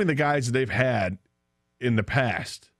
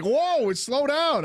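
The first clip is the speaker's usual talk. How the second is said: retold alarm; much slower than usual. Retold startled reaction in car.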